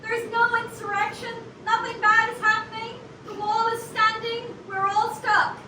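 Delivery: radio voice. Acted. Reporter reassuring listeners about the wall, radio voice. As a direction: deliver it like an on-air announcer. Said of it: "You've got a natural radio voice".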